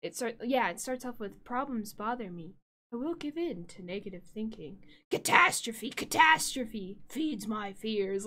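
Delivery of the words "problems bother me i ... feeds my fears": a hammed-up demon chanting a self-help tape. Streamer quoting a childhood TV show in a mock demon voice. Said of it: "in that demon voice".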